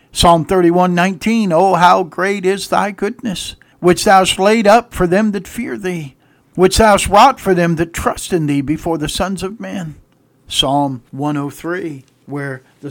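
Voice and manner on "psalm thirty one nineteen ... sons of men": loud, declamatory preacher's reading; emphatic scripture reading. Acted. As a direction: proclaim the verse to the whole congregation. Proclaims a Bible verse.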